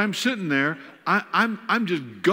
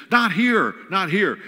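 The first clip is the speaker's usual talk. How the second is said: louder, higher, urgent outburst; acting out a panicked refusal; retold freak-out; 5 semitones higher, 5 dB louder, slower than usual. Father freaking out at his daughter's goodbye, panicked outburst. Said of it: "I'm freaking out".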